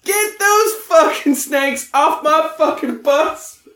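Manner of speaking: hammed-up movie line. Mock Samuel L. Jackson line in Frank's voice. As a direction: drag out the famous line.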